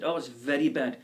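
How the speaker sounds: loud tour guide punchline in a put-on accent; mock mixed accent, emphatic; Welsh Hawaiian Indian accent. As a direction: deliver a grave warning in a badly faked accent. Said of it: "the Welsh Hawaiian Indian".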